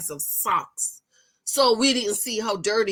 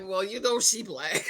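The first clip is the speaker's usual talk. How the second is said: mock stereotyped voice; 3 semitones lower, 4 dB quieter than usual. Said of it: "you can be like".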